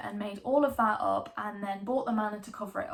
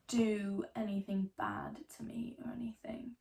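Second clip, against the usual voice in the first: whispering; 7 dB quieter than usual. Acted. Hushed memory of mother.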